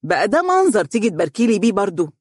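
light, bantering mock reproach; teasing. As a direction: tease the little child fondly. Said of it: "ضحك وقال مداعبا".

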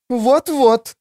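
high-pitched, eager agreement; high, indignant chime-in; eagerly chiming in. A narrator's reading. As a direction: jump in to back up the complaint. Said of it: "подхватила Баберт".

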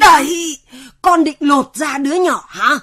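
sharp scolding. Acted. Elder rebuking helper over the baby's water, scolding.

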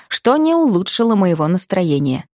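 ordinary delivery

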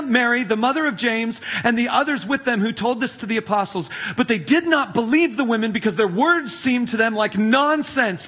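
measured, solemn Bible reading; scripture reading. Acted. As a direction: read the Gospel to the congregation. Reads scripture passage aloud.

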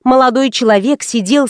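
usual speaking voice

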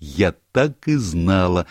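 slow, drawn-out triumphant I knew it; exclaiming slowly, delighted; exclamation. Acted. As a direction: savour the guess, stretching it out. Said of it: "воскликнула Барбара".

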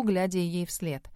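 ordinary delivery, nothing marked

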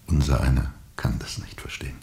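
hushed whisper, words breathed out. Acted. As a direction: murmur it as a shared secret. Leiser Dialog über das Unverständliche. (geflüstert)

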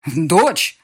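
exclaiming. Acted. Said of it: "воскликнул лорд Сейш Глоссар".

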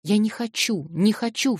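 high, frantic scream of refusal; Nelly crying out in a frenzy; frenzied cry. Acted. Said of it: "вскрикнула вдруг Нелли в каком-то исступлении".

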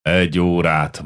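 elder brother softens, grumbling slowly; grumbled. Acted. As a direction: give in grudgingly, growling. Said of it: "morogta Jankó enyhültebben".

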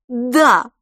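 loud, high joyful cry; exclaimed in chorus. Acted. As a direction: shout it together triumphantly. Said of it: "хором воскликнули". (громко и радостно воскликнуть)

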